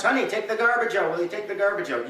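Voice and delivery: insistent repeat. Retold or imitated. Wife asking the ignoring husband again, insistent. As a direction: lean on honey, she's asked before. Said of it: "She asks you three times".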